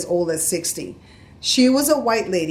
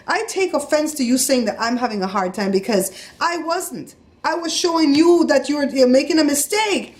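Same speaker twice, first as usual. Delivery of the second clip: retold indignation building higher; offended; 6 semitones higher than usual. Customer taking offense at cashier's remark, indignant and building. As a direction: protest with rising heat, pushing the ending. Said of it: "I was up at the top of my register".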